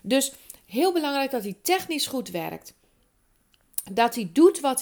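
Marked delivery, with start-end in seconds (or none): 0.0-2.7 just after a sip of coffee; while sipping coffee. Real, not acted. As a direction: talk with a wet mouth from coffee. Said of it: "Even een slokje koffie".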